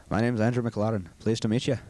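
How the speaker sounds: a light Scottish accent, rolling the R's. Shown as a demonstration. Asked by the interviewer for a demo, a light Scottish accent. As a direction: introduce yourself as a gruff old Scot in a mild Scottish accent. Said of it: "demo of the Scottish accent".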